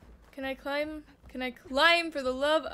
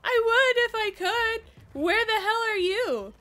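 higher, raised-voice protest; exasperated shouting back; 6 semitones higher, 4 dB louder than usual. Real, not acted. Player answering a companion who needs help, exasperated and raised. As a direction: call back loudly in exasperation.

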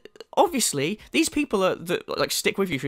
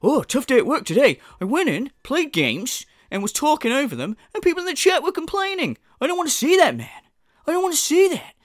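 whiny streamer mock; 7 semitones higher than usual. Mocking the streamer's tough day at work, high and whiny. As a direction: whine like a pampered streamer. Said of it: "first world fucking problem".

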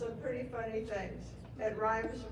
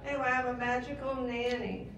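louder retake; 4 dB louder than usual. Real, not acted. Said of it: "You can't hear me, right?".

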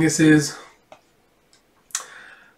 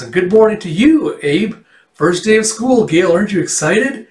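high, sing-out cheery bus driver; chirpy greeting; 5 semitones higher, 4 dB louder than usual. Acted. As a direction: gush at a kid on the first school day.

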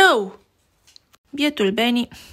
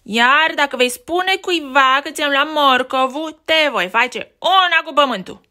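bully threat; 4 semitones higher, 4 dB louder than usual. Acted.

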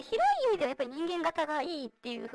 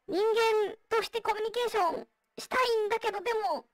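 vocoder. Real, not acted. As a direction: voice changer voice. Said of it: "今私がやってるようにボイスチェンジャー使ってる". (ボイスチェンジャーの声)

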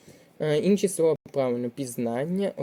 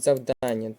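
Завдання stressed on ДАН; Завдання as зав-ДАН-ня; stress on second syllable; slower than usual. Shown as a demonstration. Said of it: "другий склад".

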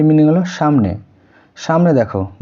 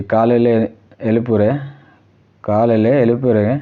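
slowly spelling out a Tamil phrase; slow demo; slower than usual. Shown as a demonstration. Teacher slowing a Tamil phrase for Bengali students, slow. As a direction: lay out each word slowly for learners. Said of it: "তাকে বলে দিলে".

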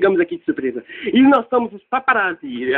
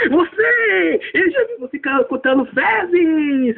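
mock accusing shout; 6 semitones higher, slower than usual. Character accuses the cleaner.

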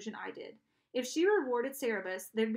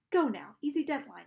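commanding; 4 semitones higher, 4 dB louder than usual. Acted. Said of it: "she ordered in the same tone".

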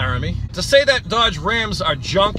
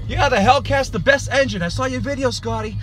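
heated rant; 6 semitones higher than usual. Real, not acted. Ranting at Scotty's contradiction.

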